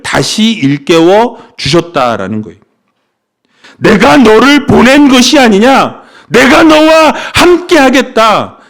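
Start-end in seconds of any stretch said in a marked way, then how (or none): 3.8-8.6 louder, higher proclaiming of 너를 보낸 것이 아니냐; God's voice. Shown as a demonstration. Pastor voices God recommissioning Gideon, louder and commanding. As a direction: proclaim it as God, with full authority. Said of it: "하나님은 다시 말씀해 주셨다".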